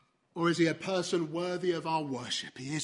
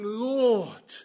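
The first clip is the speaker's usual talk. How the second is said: "Lord" said louder, falling, full of reverence; deep reverent Lord; 2 semitones higher, 5 dB louder than usual. Shown as a demonstration. Preacher showing how the leper meant "Lord", reverent. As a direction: lean into "Lord" as if to a true master. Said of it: "in a far more deep way".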